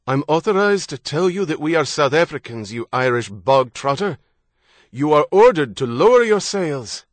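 loud contemptuous order through a hailer; loud command. A narrator's reading.

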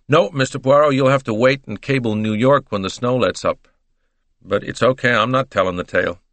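lightly voiced easygoing American; casual American twang, obliging; American detective. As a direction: answer like a breezy American gumshoe.

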